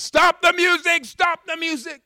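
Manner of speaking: very high, very loud yell to halt the band; shouting over a party. Retold or imitated. The guy halts the wedding band, yelling. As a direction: yell it across a crowded room. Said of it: "The guy says".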